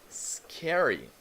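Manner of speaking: a spooky whisper of "scary"; whispered, half-playful spooky voice. Acted. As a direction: breathe it out like a ghost story. Reading a comic speech bubble.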